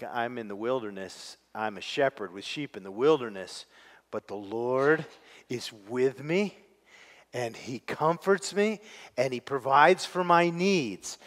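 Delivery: quiet sincere reading. Shown as a demonstration. To the congregation, showing the true meaning, quietly sincere. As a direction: say it like a shepherd alone who still trusts. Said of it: "That wasn't it. It was like".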